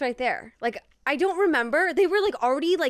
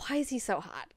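hushed swooning; 2 semitones lower, 8 dB quieter than usual. Retold or imitated. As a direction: ask it quietly, as if to yourself. Acted reaction to his looks.

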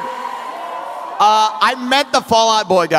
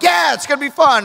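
higher, upbeat quoted reply; retold eagerness; 5 semitones higher than usual. Telling roommate about seeing girlfriends, mock-eager. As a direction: play the keen roommate.

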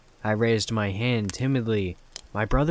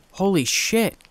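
excited shout; 8 semitones higher than usual. A narrator's reading. Brother realizing his power, shouting with excitement. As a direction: yell it with pure joy. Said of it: "shouted excitedly".

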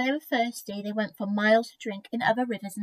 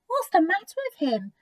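deer; 7 semitones higher than usual. A narrator's reading. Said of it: "asked a deer".

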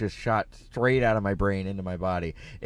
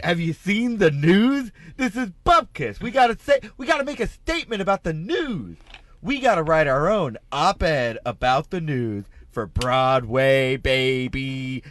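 excited; 2 semitones higher than usual. Retold or imitated. Retelling excited pitch for Broadway.

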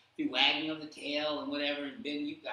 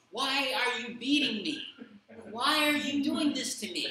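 high, loud pleading donkey voice; a wounded animal protesting, pitched up; donkey's plea; 9 semitones higher, 8 dB louder than usual. Retold or imitated. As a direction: cry out as the beaten donkey, higher and louder. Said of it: "His donkey".

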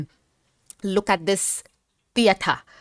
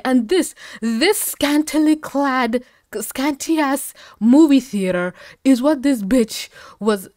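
mock disdain; 7 semitones higher, 5 dB louder, slower than usual. Real, not acted. Mocking the tiny theater.

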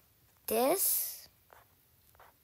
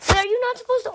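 high loud startled question; shocked squeak; 10 semitones higher, 14 dB louder, much faster than usual. Real, not acted. Kid startled by skipping a stage, high shocked squeak. Surprised by game skip.

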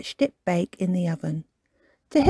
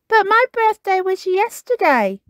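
sleepily; 12 semitones higher, 4 dB louder than usual. Acted. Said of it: "he said sleepily".

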